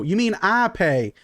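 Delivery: indignant interruption. Acted. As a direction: cut in to correct your husband. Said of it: "you hear an interruption".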